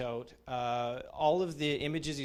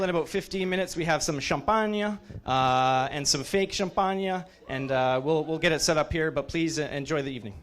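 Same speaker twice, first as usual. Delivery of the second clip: announcing; 3 semitones higher, 8 dB louder than usual. Real, not acted. Teacher announcing champagne to the room, loud. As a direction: project to the whole room.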